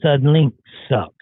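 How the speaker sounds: loud, slow declaration. Shown as a demonstration. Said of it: "and I need to say".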